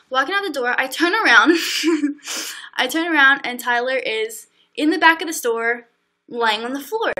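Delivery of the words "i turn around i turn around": words breaking into laughter; laughing through it. Real, not acted. Telling viewers, cracking up mid-story. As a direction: laugh as she retells it.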